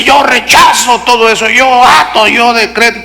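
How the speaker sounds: grito burlón, más agudo; burla de fe triunfalista. Retold or imitated. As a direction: remeda al que decreta a gritos. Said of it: "No la fe que dice". (imitación burlona gritando "yo decreto")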